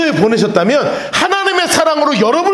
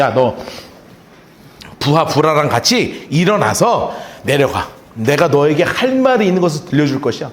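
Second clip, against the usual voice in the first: voice of God; 8 semitones lower than usual. Retold or imitated. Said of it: "기드온에게 이렇게 말씀하십니다".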